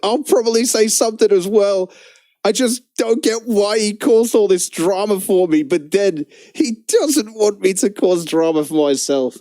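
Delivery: same words, now as the rival's pitiful whine; mocking the rival streamer. Streamer reading the rival's post again in his mocking voice. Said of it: "I'm gonna try and do like him".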